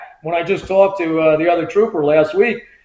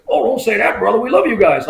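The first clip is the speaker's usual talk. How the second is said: lightly voiced wrestler, pitched higher; Hulk Hogan; 6 semitones higher than usual. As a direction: imitate a big wrestler reassuring a fan. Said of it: "he talks like he does".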